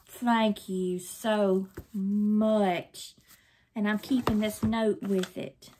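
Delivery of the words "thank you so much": very slow, sincere thanks; heartfelt thanks. Real, not acted. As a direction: stretch each word with gratitude. Thanks the sender, deeply moved.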